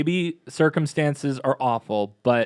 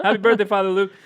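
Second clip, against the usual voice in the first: raised pitch, less loud cheer; high but milder birthday wish; second birthday cheer; 7 semitones higher, 3 dB louder, faster than usual. Real, not acted. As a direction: repeat the greeting with a little less whoop. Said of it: "I don't know why my voice got really high there".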